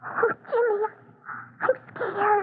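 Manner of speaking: small, fearful voice with a catch of tears; frightened. Acted. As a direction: shrink back, scared of the house. Girl frightened approaching spooky house.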